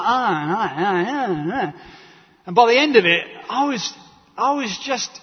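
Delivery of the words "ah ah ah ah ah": lightly mimicked chatter, a touch mocking; imitating the hygienist. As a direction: parrot her idle noises. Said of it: "She started talking like this".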